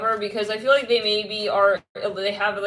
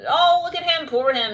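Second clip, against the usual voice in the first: high, louder put-on pity; mock pity; 8 semitones higher, 5 dB louder than usual. Reader imitating people who feel sorry for him, mock pity. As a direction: coo over him in exaggerated sympathy.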